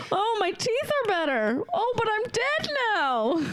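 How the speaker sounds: sensitive teeth wincing. Acted. Improv scene as Brooks Radigan.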